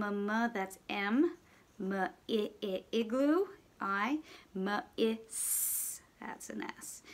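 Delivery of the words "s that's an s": whisper. Shown as a demonstration. Teacher sounding letters while writing.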